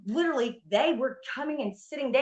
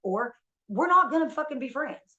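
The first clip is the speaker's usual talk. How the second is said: firm ultimatum, rising at the end; adamant. Retold or imitated. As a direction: adamant retold warning.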